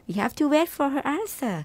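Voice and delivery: slow reading. Shown as a demonstration. Host rereads example sentence slowly.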